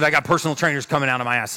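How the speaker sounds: a brash rush through the brag; fast punchy quote. Retold or imitated. Speaker repeats Grant's exact words, fast and brash. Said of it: "exact words".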